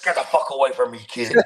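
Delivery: hammed-up irritated dismissal; mock angry brush-off. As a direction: play a wrestler shooing off a fan. Wrestler snaps at young fan.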